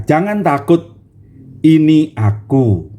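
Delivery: slow, calm reassurance; reassuring Jesus. Acted. Jesus calling to scared disciples, reassuring. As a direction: soothe frightened men gently. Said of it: "Tuhan menyapa mereka".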